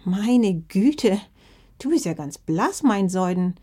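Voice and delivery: a hint of a fussing, concerned granny; worried grandma. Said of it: "bemerkte Omama besorgt". (besorgte Oma, leicht gespielt)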